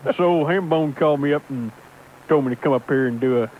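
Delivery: lightly put-on folksy trucker voice; Microphone Johnson character. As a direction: play it as a gruff hardliner caller. Holds a put-on character throughout.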